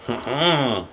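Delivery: short chuckle into a hum; knowing chuckle. Real, not acted. Reader reacting to the pretty girl page, knowing chuckle.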